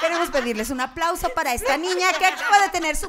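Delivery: loud, high mock cabin announcement building to a shout; imitating a flight attendant addressing passengers. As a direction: announce it to the whole plane, hammed up. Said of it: "Y la azafata".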